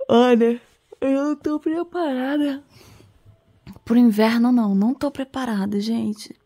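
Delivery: shaky voice from the cold; talking while freezing in bed; shivering. Real, not acted. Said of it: "eu tô congelando".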